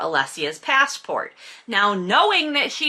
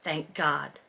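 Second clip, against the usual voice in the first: bad British accent; 5 semitones lower, 9 dB quieter than usual. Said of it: "my bad British accent the whole time".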